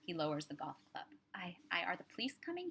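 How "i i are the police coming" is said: shaky, hushed and scared; a frightened man in pajamas asks if police are coming; frightened question. Acted. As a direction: ask it terrified, half whispering. Frightened man after intruders.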